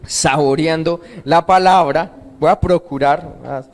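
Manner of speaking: slow and drawn out, letting each word land; slow, savoring. Real, not acted. Preacher reading slowly so the congregation savors Scripture. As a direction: let the words sink in slowly. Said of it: "Voy a ir así despacio".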